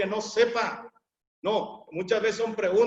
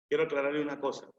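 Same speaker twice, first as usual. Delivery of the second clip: faster; 4 semitones lower, 3 dB quieter, much faster than usual. Shown as a demonstration. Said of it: "yo, yo quiero aclararle una cosa".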